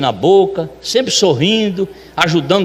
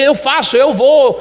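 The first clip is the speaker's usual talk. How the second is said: imitated willing helper, higher; volunteer keenly, pitched up; eager volunteering; 5 semitones higher than usual. Luiz offers to do anything asked, eagerly.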